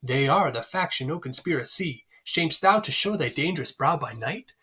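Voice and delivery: measured beat on "they ARE the FACtion, NO conSPIRaCY"; weak-STRONG verse rhythm through to "brow by night", lifting at the end; iambic pentameter. Shown as a demonstration. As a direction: recite "They are the faction" with every second syllable stressed. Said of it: "when we go to Shakespeare, we go".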